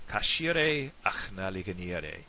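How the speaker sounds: "Cashire Achnaliganire" slowly in Donegal Irish; slow, careful Irish with an American learner's accent; Donegal pronunciation. Shown as a demonstration. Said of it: "in County Donegal".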